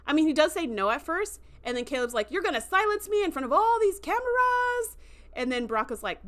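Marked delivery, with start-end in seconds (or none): 2.3-5.0 higher, pointed challenge; challenging tone. Retold or imitated. Caleb dares Braca to silence him, pointed. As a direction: call his bluff in front of everyone.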